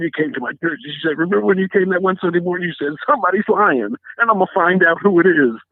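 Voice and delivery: choked up, voice climbing high; overcome, pitch rising as the memory hits; real emotional. Real, not acted. Pastor recalling what a church member reminded him of, emotional. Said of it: "Sorry, I'm just emotional".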